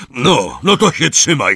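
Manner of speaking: loud, high heads-up; shouted warning. A narrator's reading. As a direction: call out to hold tight. Hagrid warns Harry before accelerating.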